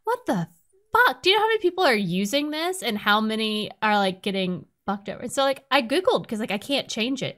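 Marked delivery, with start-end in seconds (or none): 0.0-5.2 indignant on behalf of everyone using it; outraged rant. Retold or imitated. Ranting about Teams idle setting.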